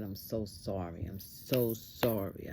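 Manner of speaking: soft, low apology to God; mildly pained, hushed remorse; retold tearful apology. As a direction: plead quietly for forgiveness, drawing it out. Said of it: "I began to cry to the Lord".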